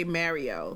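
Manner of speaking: Mario with the vowel of "marry"; imitated pronunciation. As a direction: echo their "Mario", first syllable like "mare". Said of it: "because you say".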